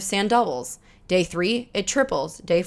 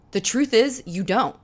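ordinary delivery

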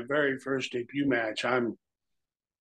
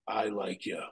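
retold whisper; 4 semitones lower, 9 dB quieter than usual. Bret quietly approving retold.

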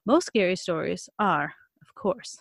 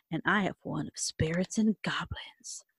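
whisper; 2 semitones lower, 6 dB quieter than usual. Acted. Whispered ghost tale line.

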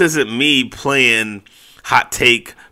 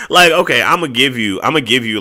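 excited; 3 semitones higher, 4 dB louder than usual. Real, not acted. Conceding a point after laughing.

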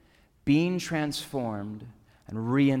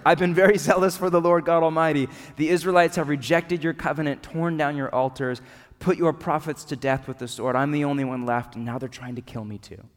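questioning, deflated. Acted. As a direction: let the same words fade into a doubtful question. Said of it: "if it's more of a question than an answer".

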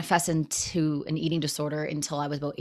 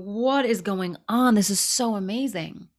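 amazed; 4 semitones higher than usual. Retold or imitated. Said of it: "I'm like".

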